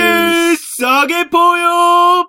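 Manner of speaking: japanese gyaru slang. Pretend. Gyaru-style cheer at ribbon cutting.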